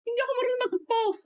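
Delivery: mataas at mabilis na reklamo; sariling sagot noon. Retold or imitated. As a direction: parang nahihiyang tumanggi, mabilis. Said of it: "Ako naman". (mataas, mabilis na pag-iwas)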